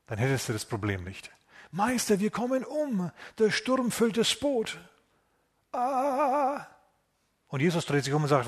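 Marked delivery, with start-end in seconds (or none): 1.7-4.8 mock panic. Disciples panic in the storm. 5.7-6.6 panicked cry. Acted. Disciples panic in the storm.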